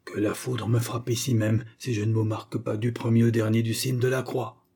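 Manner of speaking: a hint of a man daring the devils; threatening grandfather.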